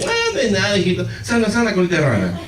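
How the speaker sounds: high-pitched mock soothing of a hurt child; imitated soothing mother. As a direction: play the unbothered mother comforting. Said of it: "ella siempre es de tener paz".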